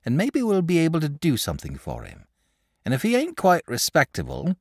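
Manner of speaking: lightly voiced practical country mother; a hint of a homely mother siding with her son; sensible mother. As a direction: settle it kindly like a sensible wife. Mother voiced in read story.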